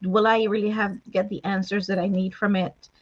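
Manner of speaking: softly voiced hesitant doubter; doubtful reader. Host voicing a viewer unsure about another book, soft hesitant doubt. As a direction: speak low-key and halting, lightly playing someone unsure. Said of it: "talk to that person right now that's looking and saying".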